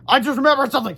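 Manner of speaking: high, loud panicked blurt; panicking. A narrator's reading. George on the phone to Harold, high panicked blurt. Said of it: "said George, panicking".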